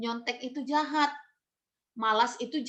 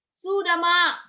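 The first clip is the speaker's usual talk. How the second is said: put-on higher, louder eager child's answer; a kid fibbing to his mother, higher and louder; child's quick fib; 6 semitones higher, 6 dB louder, slower than usual. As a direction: chirp a fake yes to mom.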